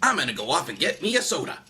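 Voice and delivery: high, pushy puppet begging for a drink, then shouting; a pestered puppet yelling at the crowd; whiny puppet host. Acted. Puppet host to the audience, whiny then shouting.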